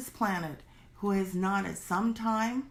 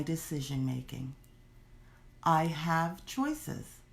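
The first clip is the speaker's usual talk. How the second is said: low, measured affirmation with deliberate pauses; steady self-affirming statement; affirmation recital; 4 semitones lower than usual. Shown as a demonstration.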